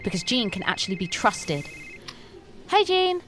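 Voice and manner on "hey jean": high, loud, delighted hello; light up when she answers; eager greeting. Acted.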